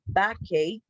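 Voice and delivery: "Backache" ending in a clear "ache"; pronunciation demo. Shown as a demonstration. Teacher reminding students of the pronunciation, word modelled clearly. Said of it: "Remember the pronunciation".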